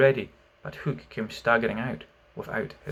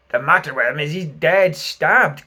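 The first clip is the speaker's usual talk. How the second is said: hollow voice; 3 semitones higher, 8 dB louder than usual. A narrator's reading. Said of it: "in a hollow voice".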